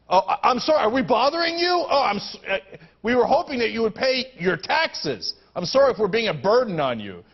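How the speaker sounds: sarcastic sorry to a complaining CEO; sarcastic apology. Real, not acted.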